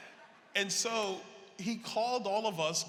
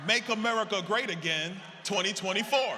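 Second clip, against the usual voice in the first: louder, proclaimed slogan; rally shout; 3 semitones higher, 6 dB louder than usual. Retold or imitated. Speaker reads the truck's sign to the crowd, loud slogan. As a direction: call the sign out like a chant.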